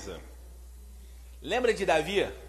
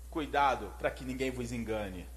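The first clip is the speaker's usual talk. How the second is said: soft solemn warning; 9 semitones lower, 8 dB quieter than usual. Acted. Jesus quoted warning disciples.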